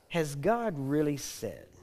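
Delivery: slow, lightly voiced tempter; insinuating serpent. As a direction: plant doubt slowly, drawing it out. Voicing the serpent's doubting question.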